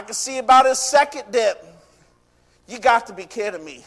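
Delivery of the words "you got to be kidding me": lower-pitched, disbelieving grumble; mutedly fed up with it all; Naaman grumbling. Retold or imitated. Naaman grumbles after second dip.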